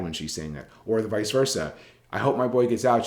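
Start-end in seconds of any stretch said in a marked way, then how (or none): 2.1-3.1 quicker, lightly upbeat hopeful delivery; happy example quote. Shown as a demonstration. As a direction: lift it a little, mildly encouraging. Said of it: "she said, hugging and smiling".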